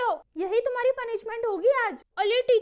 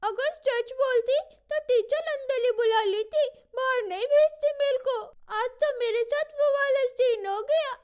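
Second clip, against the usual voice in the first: crying. Acted. Girl sent out of class, crying.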